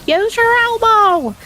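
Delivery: high, loud, slow shout; shouting at the sneezing son; mom shouting. Retold or imitated. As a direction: call it across the house. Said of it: "she just shouted".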